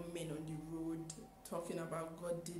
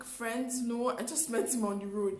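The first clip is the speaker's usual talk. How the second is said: indignant denial; 4 semitones higher, 7 dB louder than usual. Retold or imitated. Indignant denial in retold exchange.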